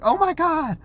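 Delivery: high-pitched pretend distress; mock panic of kids. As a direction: play trapped kids squealing for rescue. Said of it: "the kids were like".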